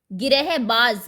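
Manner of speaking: गिरहबाज said loud with a final z; nukta z sound. Shown as a demonstration. Teacher modelling गिरहबाज for students. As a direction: end गिरहबाज on a clear z. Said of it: "नुक्ता लगा के".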